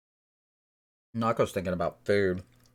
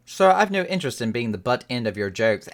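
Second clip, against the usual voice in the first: haughty scholar voice; 2 semitones higher, 6 dB louder than usual. Acted. Reads NPC scholar's lines.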